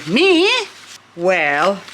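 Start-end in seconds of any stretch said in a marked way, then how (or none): 0.1-0.5 higher, louder answer to a call; playful mock reply. Pretending a plant answers someone calling it, mock high. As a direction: play the one being called. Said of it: "someone's calling you and then you say".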